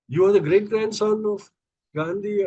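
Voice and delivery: amazed to learn who he is; retold officer's astonished question; surprised.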